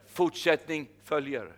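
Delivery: slow, weighty Fortsättning följer with the stress on Fortsättning; slow proclamation. Shown as a demonstration. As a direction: spell out Fortsättning följer slowly, each syllable weighted. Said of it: "jag har ett ord till dig". (långsamt och tungt: Fortsättning följer)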